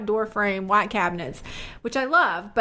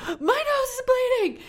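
imitating her daughter; 14 semitones higher than usual. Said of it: "she goes".

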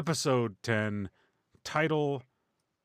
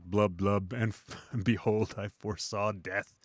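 goldfish voice; 2 semitones lower, slower than usual. Pretend. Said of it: "looking up at you like".

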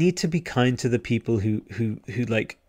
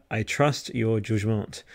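put-on French accent; 5 dB quieter, much slower than usual. Streamer trusting a chatter's pick, in a mock French accent. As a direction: put a slow French lilt on it. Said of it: "my terrible French accent".

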